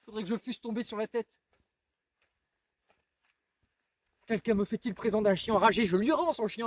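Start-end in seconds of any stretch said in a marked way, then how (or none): 0.1-1.3 high but soft aside; muted disbelief. Acted. Man refusing the idea to himself, softly incredulous. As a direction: scoff softly to yourself, pitched high. First take of repeated refusal.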